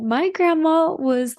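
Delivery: giggling through the words, slow. Real, not acted. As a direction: hold back a giggle while describing her. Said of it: "And I started giggling".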